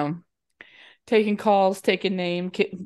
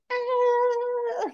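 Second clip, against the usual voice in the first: retold scream. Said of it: "she's like".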